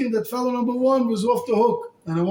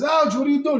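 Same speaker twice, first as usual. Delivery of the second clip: mock pained cry; 7 semitones higher, 4 dB louder than usual. Man punched in the nose.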